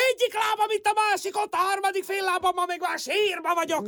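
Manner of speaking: hurried, whining lament; tearful complaint. Acted. Overworked woman lamenting to her neighbour, tearful complaint. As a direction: pour out woes near tears. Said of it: "ne sírjon már".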